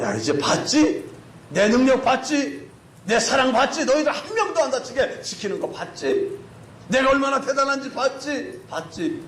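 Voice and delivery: acted told-you-so questioning; triumphant prodding. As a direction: press each question home proudly. God proudly quizzing the rescued people.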